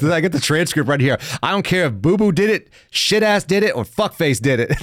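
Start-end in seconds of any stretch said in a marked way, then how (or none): 1.4-4.7 reading her insults aloud with amusement, a bit higher; quoting the boss's tirade half-laughing; mock reading of her rant. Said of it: "I gotta read this".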